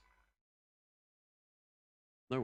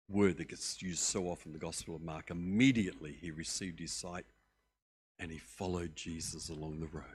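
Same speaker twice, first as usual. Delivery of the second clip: ordinary talk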